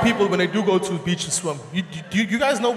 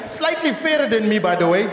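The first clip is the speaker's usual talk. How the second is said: ordinary delivery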